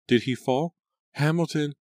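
a narrator's rising panicked scream. A narrator's reading. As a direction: scream his name in horror. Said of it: "Angelica screamed".

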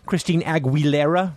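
slow, put-on Spanish pronunciation; showy Spanish accent, played for laughs. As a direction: draw out the name in a mock Spanish accent. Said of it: "You have an excellent Spanish accent".

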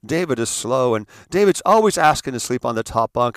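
a hint of the gushing mother to the doctor; lightly voiced martyr mom; mother playing innocent to the doctor, mildly theatrical; dramatic mother pleading. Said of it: "the story that she tells the doctor".

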